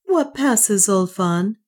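a concerned queen; Juana. Acted. Juana to Ulfan, concerned.

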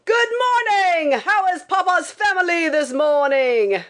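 father's unsympathetic high-pitched call; screaming father. A narrator's reading. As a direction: scream a greeting in a high, carrying voice. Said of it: "loudest, coldest, most unsympathetic voice".

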